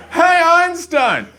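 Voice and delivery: high, slow taunting call; mock bully shout. Bully calling to boy reading a book, jeering shout. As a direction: imitate a bully yelling across the street.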